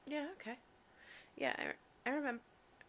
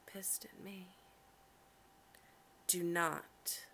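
commanding partner; 3 semitones lower than usual. Acted. Dominant girlfriend directs her stressed partner, measured and commanding.

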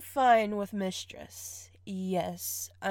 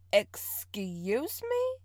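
offended excuse me; 2 semitones higher, much slower than usual. Acted. Mock offense at partner.

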